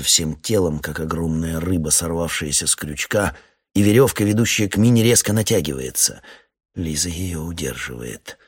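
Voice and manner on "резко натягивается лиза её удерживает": ordinary delivery, nothing marked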